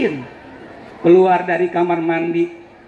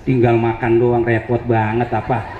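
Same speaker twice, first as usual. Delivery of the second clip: much lower, mock-annoyed retort; a wife retorting to the complaining husband; snapping wife; 9 semitones lower than usual. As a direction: snap back at the husband. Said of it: "Kan bininya nyobain".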